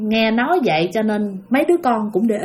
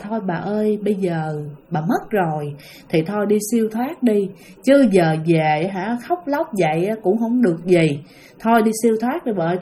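gentle plea; 3 semitones lower than usual. Retold or imitated. Elders pray to the dead grandmother.

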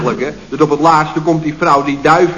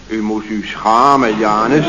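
scolding lady; 6 semitones lower, slower than usual. Retold or imitated.

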